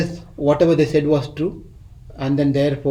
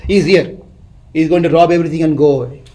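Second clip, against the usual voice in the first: louder, fast alarmed warning; urgent loud warning; 5 dB louder, faster than usual. Retold or imitated. Man warning the sleeping village, loud and fast. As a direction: rush it out as an alarm.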